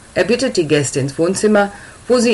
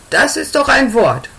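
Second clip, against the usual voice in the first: put-on high teen call; 8 semitones higher than usual. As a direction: exclaim it brightly, much higher. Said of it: "ruft Jenny".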